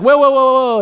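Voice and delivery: put-on gleeful little-girl whoas; high excited child voice; excited toddler. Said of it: "she starts kind of running towards them".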